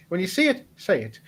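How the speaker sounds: put-on Irish accent. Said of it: "Can't do an Irish accent".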